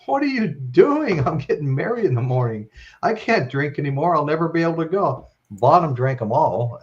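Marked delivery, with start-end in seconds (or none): 0.1-5.3 mock protest. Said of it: "Naomi goes".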